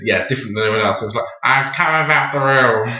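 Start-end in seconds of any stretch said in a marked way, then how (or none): 1.4-2.9 lightly voiced strange loony; slightly raised pitch, a hint of madman; psychologically mad character. Actor recalling his mad stage character's line, lightly voiced madman. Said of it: "the way I played it was".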